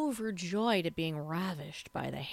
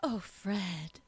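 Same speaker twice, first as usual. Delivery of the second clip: fast, higher swooning dubbed heroine; riffing overdub voice; 3 semitones higher than usual. Shown as a demonstration. Co-host asks for more, riffed swooning overdub voice. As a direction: keep riffing the dubbed love scene. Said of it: "Just, just, just riff".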